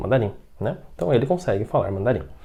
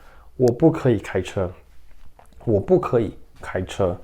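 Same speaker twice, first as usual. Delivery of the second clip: 1 slow model reading; slower than usual. Shown as a demonstration. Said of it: "por exemplo".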